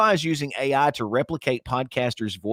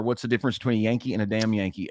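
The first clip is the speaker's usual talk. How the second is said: quick retelling; 2 semitones lower, faster than usual. Acted. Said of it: "To a Southerner".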